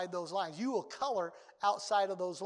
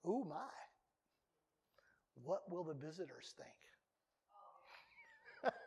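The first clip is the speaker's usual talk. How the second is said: amused worry; 4 semitones lower, 12 dB quieter, much slower than usual. Retold or imitated. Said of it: "As a pastor, I might think".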